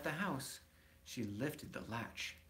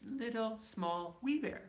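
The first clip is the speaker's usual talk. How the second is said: each word higher for the wee bear; rising to tiny; 11 semitones higher than usual. A narrator's reading. Reading the smallest bear to child, rising tiny voice.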